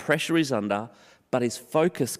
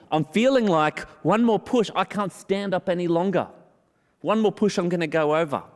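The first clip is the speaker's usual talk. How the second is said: lightly voiced weary David, higher and straining; a hint of a man about to topple, pitched up; voicing David's strain; 6 semitones higher than usual. Pastor voicing David feeling pushed over. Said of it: "This is how he's feeling".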